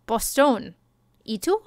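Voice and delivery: Boston said as Spanish Bostón; Bostón in Spanish style with an open o; Spanish accent. Shown as a demonstration. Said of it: "how would you say Boston in a Spanish accent".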